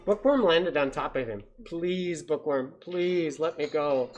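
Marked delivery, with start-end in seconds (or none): 1.6-4.1 mild, drawn-out plea from a caught mouse; pleading. Acted. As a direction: beg the owl to let you go. Mouse begs the owl for mercy.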